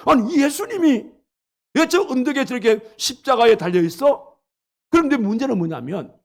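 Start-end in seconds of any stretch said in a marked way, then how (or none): 0.1-4.4 higher, startled exclaiming; shocked realization. Acted. Booth in the dream recognizing Jesus on the cross, shocked. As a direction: gasp it out as if it cannot be true.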